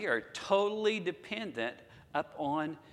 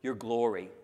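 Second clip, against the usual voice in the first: bold request; 4 dB louder than usual. Retold or imitated. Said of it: "He said".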